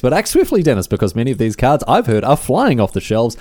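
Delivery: emphatic salesman's plug; hammed-up infomercial pitch; shilling. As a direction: urge the listener to buy now. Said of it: "how about some shilling".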